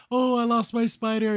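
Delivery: high-pitched, hammed-up acting; Hop Pop. Hop Pop acting to distract the guards, hammed up. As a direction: put on an overacted distraction voice. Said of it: "He does, like, this".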